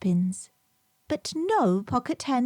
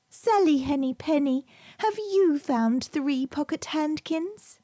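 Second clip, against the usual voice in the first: put-on little girl asking; 6 semitones higher than usual. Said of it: "So Lucy asked a speckled hen".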